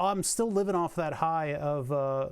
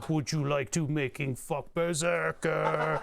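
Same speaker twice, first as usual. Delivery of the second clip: slow broken-English radio voice; imitating a goofy song lyric; mock foreign accent; slower than usual. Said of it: "all we played on the stereo was".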